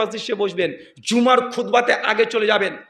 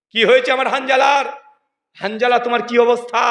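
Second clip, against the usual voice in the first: concerned calling out; 3 semitones higher, 4 dB louder than usual. Acted. Acted concerned question to companion.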